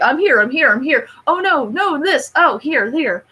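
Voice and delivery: lightly voiced, jittery little bird blurting in a rush; a hint of a frantic, scatterbrained advisor; frantic Zazu imitation. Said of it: "more frantic".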